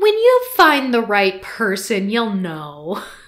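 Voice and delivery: mocking singsong with swooping pitch. Imitating what adults tell young people, mocking imitation of adults.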